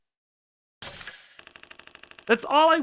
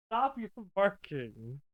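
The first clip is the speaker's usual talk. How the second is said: scolding that breaks into a laugh, slow; 2 semitones higher, 6 dB quieter, slower than usual. Real, not acted. Streamer laughing while telling her dog to stop barking. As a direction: try to scold but crack up.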